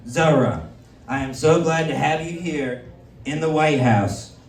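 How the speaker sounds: a lightly done Trump welcoming the mayor; lightly voiced Trump. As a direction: play the president greeting a guest, low-key. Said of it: "playing the part of the potential pedophile protector".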